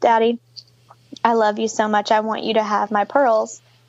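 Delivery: put-on tearful voice. Retelling a story about a little girl and her dad: imitating someone in tears. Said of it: "she just is in tears".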